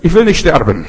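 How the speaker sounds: a woman on the street screams in panic at missionaries; retold scream. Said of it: "Dann schreit sie auf der Straße".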